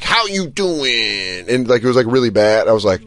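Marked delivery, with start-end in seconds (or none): 0.0-1.5 slow, soft flirty imitation; imitating her. Mocking her video to friends, slow soft flirt. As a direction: drawl it like a bad flirt. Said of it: "her going like".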